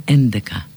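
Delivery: «έντεκα» με καθαρό ν πριν από το ντ; πρόφερε αργά το «έντεκα», να ακουστεί το ν; σωστή άρθρωση. Shown as a demonstration. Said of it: "μαθήματα ορθοφωνίας στους αριθμούς". (καθαρή ορθοφωνία με ηχηρό ν)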